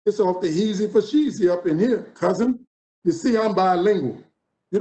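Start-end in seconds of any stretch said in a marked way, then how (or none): 0.0-2.6 lightly voiced New Orleans street talk; a hint of New Orleans dialect, played for laughs; New Orleans slang. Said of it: "I was saying things like".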